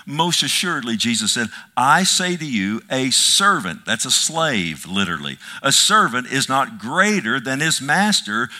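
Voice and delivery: scripture read out with rising force; preaching scripture. Acted. Preacher reading Jesus' words to the church, building in force. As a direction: proclaim each line to the congregation.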